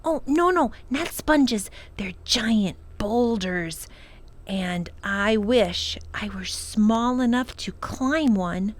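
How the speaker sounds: put-on a girl carried away by her fancy; excited girl. Lindy insists excitedly at dinner.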